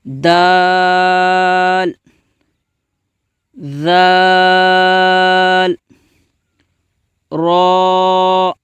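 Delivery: جیم ہا خا each slow and drawn out; letter recitation. Shown as a demonstration. Teacher recites letters for children to repeat slowly. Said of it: "اس طرح سے آپ بھی پڑھیں".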